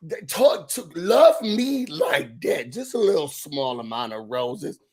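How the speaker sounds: slow mock Jamaican accent, dropping low. Presenting a small amount of roses, Jamaican accent. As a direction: imitate a suave Jamaican-accented host. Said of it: "he's talking in this Jamaican accent".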